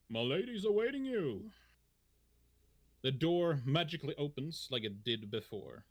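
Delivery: measured scene-setting narration; story narration. Acted. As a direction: paint the scene for the players. Game master scene setting.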